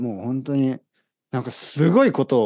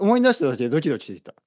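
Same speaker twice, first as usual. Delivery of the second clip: excited; much faster than usual. Real, not acted.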